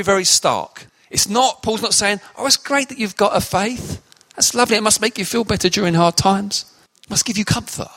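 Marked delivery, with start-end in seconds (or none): 2.4-7.9 lightly higher, sugary reassurance; a hint of a gushing well-wisher, said mockingly; mock sentimental comfort. Preacher mocking shallow comfort Paul never offers, lightly sweet mock tone. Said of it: "he doesn't talk like that".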